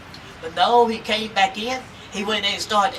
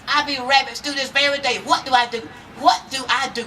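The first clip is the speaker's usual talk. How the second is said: fretting more with every ask; rising panic; 5 semitones higher than usual. Acted. Rabbit hanging, panicking.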